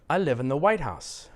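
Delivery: "White House" fused, peak on White; stress on WHITE. Shown as a demonstration. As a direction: hit White and drop House. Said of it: "stress these two words as if they are one word".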